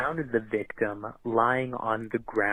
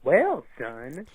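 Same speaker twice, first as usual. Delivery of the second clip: cowboy drawl; 2 semitones higher than usual. Acted. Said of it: "Cop two".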